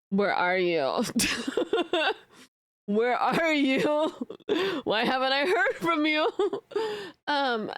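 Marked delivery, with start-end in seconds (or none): 0.1-6.3 clingy friend. Retold or imitated. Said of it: "I'm very, like".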